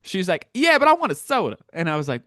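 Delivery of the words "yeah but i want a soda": mock stubborn old lady. Seatmate insisting on soda.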